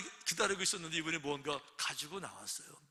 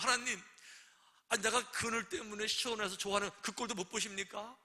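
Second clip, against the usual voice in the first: higher, indignant protest to God; mock angry complaint; 5 semitones higher than usual. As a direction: complain like a sulking prophet. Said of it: "막 화를 내는 거죠".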